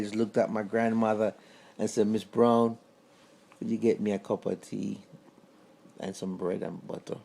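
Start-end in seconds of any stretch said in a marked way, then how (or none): 2.1-7.2 calm granddad. Retold or imitated. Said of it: "his calmness just transferred to her".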